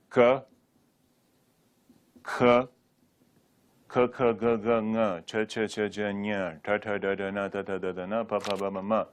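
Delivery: chanted alphabet drill in an even stream; recited Sanskrit consonants. Shown as a demonstration. Teacher reeling off examples of phonemes, recited consonant series. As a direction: run evenly through the consonant syllables, "ka, kha, ga". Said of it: "These are all phonemes".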